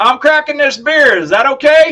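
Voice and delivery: shrill, very loud, high Kentucky accent. Speaker rereads a line in an accent to change the others' minds: southern Kentucky accent. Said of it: "it just sounds Kentucky".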